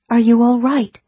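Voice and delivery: gentle. A narrator's reading. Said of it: "she asked gently".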